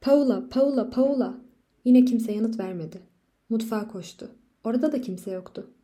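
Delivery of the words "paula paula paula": loud, higher, desperate calling; husband searching the empty house, shouting; frantic repeated shouts. A narrator's reading. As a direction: call her name like someone under attack. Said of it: "saldırıya uğramış biri gibi tüm evin içinde bağırmaya".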